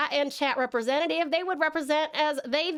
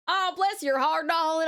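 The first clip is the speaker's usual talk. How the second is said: put-on Southern Belle accent; 3 semitones higher than usual. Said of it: "Southern Belle".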